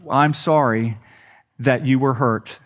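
fake apology. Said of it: "the not real apology of".

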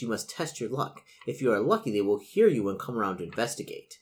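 measured gamebook read-aloud; game master narration. A narrator's reading. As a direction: set the scene for the players. Game master reads scene.

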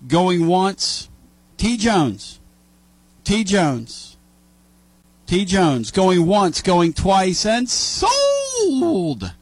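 auction call, going once going twice; auctioneer. Pretend. Auctioning off absent Tony.

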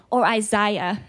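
"Isaiah" said the South African way, as ee-SAH-ya; South African pronunciation. Shown as a demonstration. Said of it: "as we say in South Africa".

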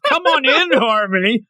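high, a hint of a sleazy host; lightly voiced smooth flirt. Jean-Marc welcoming Harmony, lightly voiced sleazy charm. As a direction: invite her in with mock charm. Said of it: "He just".

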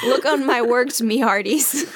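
laughing pirate captain. Pretend. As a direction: hail your hearties like a pirate.

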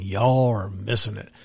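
mock Southern twang on "Y'all", only a hint of it; Southern accent. Host teasing listeners, light Southern accent. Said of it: "I love doing that Southern thing".

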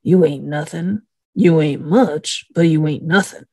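lightly voiced imitation, unhurried in the middle; Doc. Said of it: "in Doc's voice, she says".

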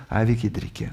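put-on low, soft, bored whine of sleepy children; tired kids. Preacher voicing kids refusing the game, bored whine. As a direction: drag it out like a child who won't play. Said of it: "Som trøtte unger like før leggetid".

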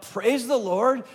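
slow, ringing praise the Lord; called out. Retold or imitated. Preacher voicing heaven calling out, slow ringing call. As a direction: call it out across a crowd. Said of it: "the heavens calling out".

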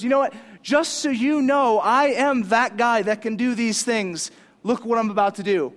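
loud, emphatic acted-out declaration; bold retort. Jesus answers his critics boldly.

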